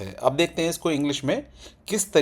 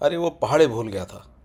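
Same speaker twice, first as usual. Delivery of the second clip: put-on talking about a child; 2 semitones lower than usual. Shown as a demonstration. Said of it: "जैसे बच्चे के लिए बोला जाता है ना".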